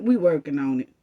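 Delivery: low sarcastic echo; mock brush-off. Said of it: "same way y'all said".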